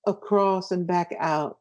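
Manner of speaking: slowed, drawn-out phrase. Shown as a demonstration. Explaining the wave motion, said slowly. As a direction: trace the motion slowly with the words. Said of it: "something like a wave".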